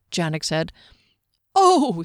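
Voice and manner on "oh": higher, louder scoff; derisive snort. A narrator's reading. Skimnoddle mocking a companion, snorted. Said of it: "Skimnoddle snorted".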